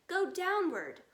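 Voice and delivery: high, loud command; order. Acted. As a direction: bark the order to dig down. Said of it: "ordered Mister Fox".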